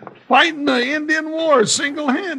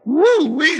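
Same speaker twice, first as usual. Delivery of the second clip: excited whoop; 3 semitones higher, 5 dB louder than usual. Acted. After the dynamite blast.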